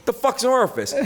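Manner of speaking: lightly voiced tough-guy uncle; Brooklyn goomba. Uncle who owned the club, a light Brooklyn goomba voice. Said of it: "he was, like, a Brooklyn goomba".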